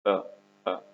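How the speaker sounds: "أ، أ" as two short "uh" sounds; isolated vowel sound. Shown as a demonstration. Teacher showing how the O is pronounced, "أ، أ" as short vowels. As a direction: sound out "أ، أ" separately, short and open. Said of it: "الأو هنا بتنطق".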